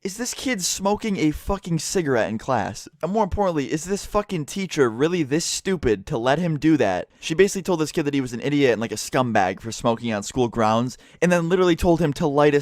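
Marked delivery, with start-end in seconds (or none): 0.0-7.1 slow, higher incredulous inner voice; a touch of stunned disbelief. Retold or imitated. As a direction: ask it like you can't believe your eyes. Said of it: "we're just sitting there like".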